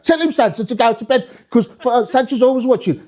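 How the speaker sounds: high, insistent Brummie parent; Birmingham accent. Acted. Birmingham parent asking Santa for backup, Brummie accent. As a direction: plead in a lilting Birmingham accent. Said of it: "this family come in from Birmingham".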